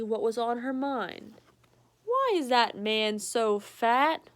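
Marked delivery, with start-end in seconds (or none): 2.0-4.3 slow, louder innocent question; lightly voiced frank dog; blunt dog question. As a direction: say it without tact.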